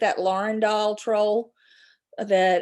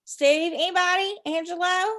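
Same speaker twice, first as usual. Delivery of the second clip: calling out; 8 semitones higher, 3 dB louder than usual. Real, not acted. Calling out to chat viewers.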